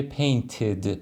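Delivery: پینتد with an extra final "id" syllable; careful teacher's پینتد, ending voiced as "id". Shown as a demonstration. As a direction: sound out the "id" at the end of پینتد.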